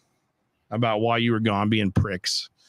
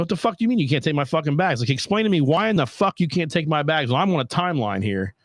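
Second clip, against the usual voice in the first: higher-pitched, mild mock yell; exasperated rant, retold with raised pitch; retold angry yelling; 4 semitones higher than usual. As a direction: re-enact an irate demand without full volume. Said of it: "I was like, I was yelling".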